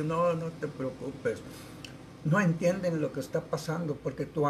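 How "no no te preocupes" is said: a slow, reassuring "don't worry", with a hint of a laugh; calm her fears gently and unhurriedly; tranquilizador. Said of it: "yo me reí, le digo". (tranquilizando a la paciente con calma, pausado)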